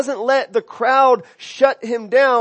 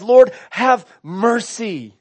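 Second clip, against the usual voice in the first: earnest prayer; slower than usual. Real, not acted. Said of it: "one of my greatest cries".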